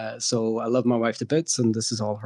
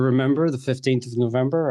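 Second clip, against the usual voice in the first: rhythmic sing-song recital, a little louder, stress on remember; mock poem recital; 4 dB louder than usual. Guest promoting his event, reciting a mock poem. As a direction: recite it like the old rhyme, with a wink. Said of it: "I'm trying to rework that poem".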